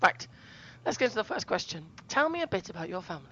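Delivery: hoarse from a sore throat; rough, scratchy throat voice; gravelly voice. Real, not acted. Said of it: "I had a bad throat and I sound really gravelly".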